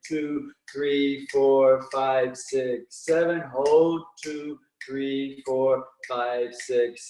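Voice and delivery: slow, even counting through each breath; guided breathing count. Acted. Instructor counting a breathing class through the rhythm, calm and steady. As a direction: pace the class through inhale and exhale calmly.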